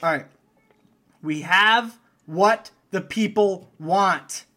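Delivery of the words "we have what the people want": dramatic announcement. Acted. Announcing the draft topic.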